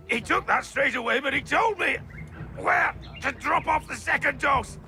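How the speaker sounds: panicked confession under interrogation; frightened protest. Acted. Apothecary tells interrogator about the poison, frightened protest. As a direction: protest innocence, crying out in pain between phrases.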